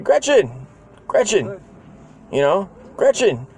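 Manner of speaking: high calling out a name; calling out to mom. Retold or imitated. Kid calling for Robbie's mom Gretchen, high calling voice. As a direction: call for the mother across the house. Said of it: "Be like".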